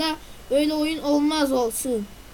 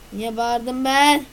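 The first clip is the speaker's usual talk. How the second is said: drawn-out, louder "Niye bağırdım ben?" with ben stretched; slow, louder repeat; 7 dB louder, much slower than usual. Shown as a demonstration. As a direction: repeat it slowly and with more force. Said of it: "Niye bağırdım ben de bilmiyorum". (yavaş ve yüksek sesle tekrar)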